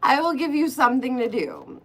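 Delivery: mock sugary coaxing of a bored ghost. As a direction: sweet-talk her into tarot. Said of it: "I said".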